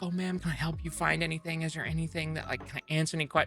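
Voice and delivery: attentive clerk. Retold or imitated. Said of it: "they're like".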